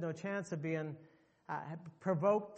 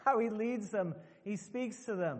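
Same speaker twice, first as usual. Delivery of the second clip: the guide yelling in shock, then calming; startled guide calling out, then explaining; alarmed outcry; 6 semitones higher than usual. Retold or imitated. Tour guide stops the butcher.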